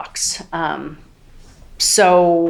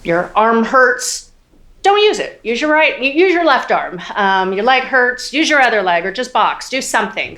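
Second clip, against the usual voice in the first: tough coach; 5 semitones higher, 4 dB louder than usual. Retold or imitated. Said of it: "we were always told to power through".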